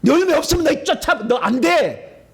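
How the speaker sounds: high, forceful rebuke; acted stern rejection. Preacher warning the fruitless believer, high rebuke.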